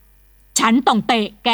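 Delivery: ฉันต้องเตะแก said slowly, every word pressed; emphatic, word by word. Acted. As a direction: lean hard on each word of ฉันต้องเตะแก. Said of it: "ท่านพูดเน้นคำ".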